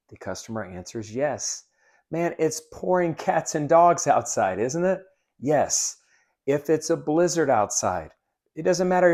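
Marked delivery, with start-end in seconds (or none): 2.1-5.0 bright, higher, louder "Beautiful day", rising on "isn't it"; cheery small talk. Shown as a demonstration. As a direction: chat up the customer about the weather. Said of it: "let me show you".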